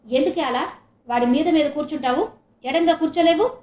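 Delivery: mother shouting. Acted. Mother yells at daughter sitting on her brother. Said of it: "అని అరిచింది".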